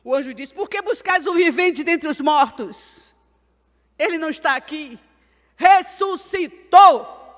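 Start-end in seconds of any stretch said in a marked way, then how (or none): 0.5-5.0 angel proclaiming. Retold or imitated. Angel to the women at the tomb, loud proclamation. Angel's words retold in a sermon. 5.6-7.3 shouted, very drawn-out proclamation; triumphant shout. Retold or imitated. Angel announcing the resurrection, triumphant shout.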